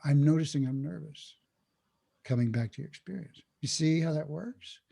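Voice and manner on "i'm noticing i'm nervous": calm noticing. Acted. Teacher models the mindful alternative to freaking out, calmly. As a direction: step back and observe the nerves evenly. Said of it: "Instead, it's like".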